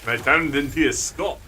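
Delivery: lighter Scottish brogue; Scottish accent, easy and unforced. Shown as a demonstration. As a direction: say it with a modest Scots burr. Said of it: "I can go much more of the brogue".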